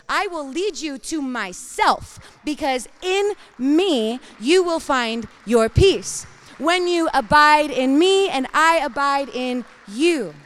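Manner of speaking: loud, slow, building proclamation; preaching at full force. Acted. Preacher voicing God's promise to the congregation, booming. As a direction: drive it home to the congregation.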